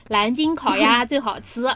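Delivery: slow Beijing accent; Beijing accent, unconvincing. Shown as a demonstration. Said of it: "用北京口音说".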